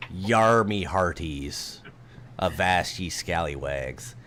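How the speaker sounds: slow, lightly voiced pirate; a hint of an old sea dog; old sailor. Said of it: "Cliff, give me a performance".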